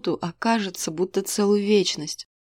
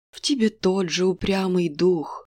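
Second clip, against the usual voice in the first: fortune teller. Acted. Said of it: "заметила прорицательница".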